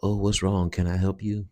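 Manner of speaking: mock concern. Host imagining a helper greeting a weird intruder, mock concern. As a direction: put on a mock solicitous offer of help. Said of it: "think it's gonna be".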